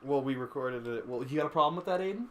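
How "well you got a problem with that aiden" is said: aggressive. Real, not acted. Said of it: "I didn't mean for that to sound so aggressive".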